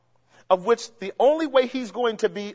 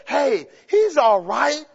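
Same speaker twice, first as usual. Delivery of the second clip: mock naive listener; 3 semitones higher, slower than usual. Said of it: "teachings that would cause you to say".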